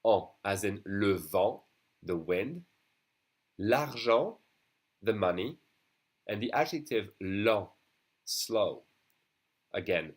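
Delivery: le vent, l'argent, lent with nasal en; nasal en sound. Shown as a demonstration. Teacher models the en sound in example words. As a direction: model the nasal en in each word. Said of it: "are the sound en".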